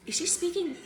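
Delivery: confused listener. Retold or imitated. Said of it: "look at me as li-, like".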